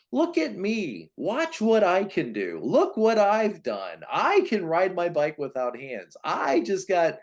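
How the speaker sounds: put-on high, slow, showing-off kid calling look at me; boastful achiever child. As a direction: brag like an eager oldest child begging for attention. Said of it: "the performer or the achiever".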